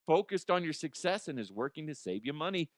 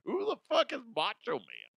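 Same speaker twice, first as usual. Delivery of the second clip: put-on kid voice; 10 semitones higher than usual. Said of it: "The kids are gonna be like".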